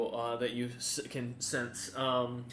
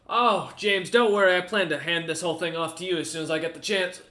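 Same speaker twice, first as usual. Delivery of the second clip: jovial lord; 3 semitones higher, 5 dB louder than usual. Acted. Lord jokes to his men.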